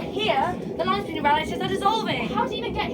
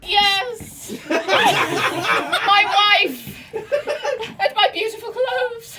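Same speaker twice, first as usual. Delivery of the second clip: laughing; 2 semitones higher, 4 dB louder, much slower than usual. Acted. Laughing through dying speech.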